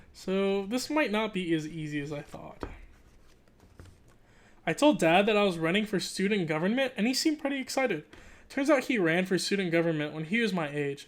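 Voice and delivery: animated read-aloud narration; story narration. Acted. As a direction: read it like a kid's diary, lively. Reads the book aloud.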